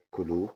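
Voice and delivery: كلو ending on a rounded "aw". Shown as a demonstration. Teacher reviewing the claw example, O sound in كلو. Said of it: "بتتنطق أو".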